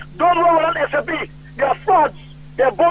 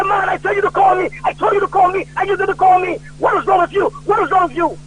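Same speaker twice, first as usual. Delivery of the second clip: put-on raised, scolding old statesman; mock scolding; 4 semitones higher than usual. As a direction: chide him for not calling. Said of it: "He said".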